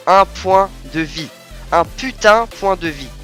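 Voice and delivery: slow, exasperated disbelief; raging gamer. Real, not acted. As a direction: drag it out in gamer frustration. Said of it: "super ragé sur cette attaque". (joueur enragé)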